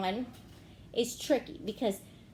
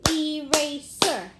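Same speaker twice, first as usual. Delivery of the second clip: "Eraser" slow and loud as ee-ray-ser; clapped-out syllables; 3 semitones higher, 7 dB louder, slower than usual. Shown as a demonstration. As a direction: chant "Eraser" in three loud beats, long E first. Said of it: "One more time".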